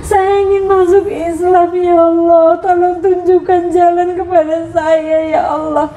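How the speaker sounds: tearful pleading prayer. Retold or imitated. Mother retelling her lonely prayer, tearful and pleading. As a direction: pray through rising tears, pleading. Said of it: "Saya sering menangis".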